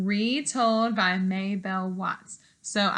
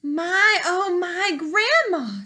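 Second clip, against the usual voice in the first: put-on little girl; 8 semitones higher, 3 dB louder, slower than usual. Girl marvels at teeth.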